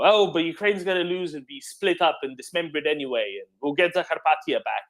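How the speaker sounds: sneering high mock voice; mocking quote. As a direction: parrot their line with contempt. Mocking pro-government commentators.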